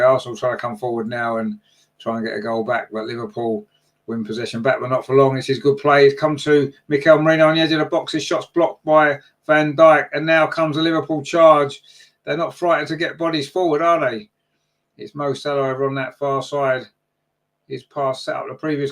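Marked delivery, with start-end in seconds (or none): 4.8-14.0 excited play-by-play. Real, not acted. Live play-by-play of an attack.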